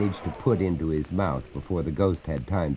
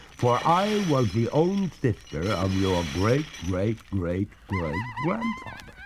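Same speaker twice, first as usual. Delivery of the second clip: higher, slowing wistful ghost; mournful ghost; 5 semitones higher than usual. Acted. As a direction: sigh over two hundred years. Ghost tells her lineage.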